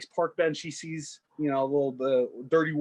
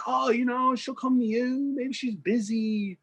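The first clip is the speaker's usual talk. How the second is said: higher, lighter woman's voice; higher voice of a kind stranger on a bench; 8 semitones higher than usual. Retold or imitated. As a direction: reassure him in a higher woman's voice.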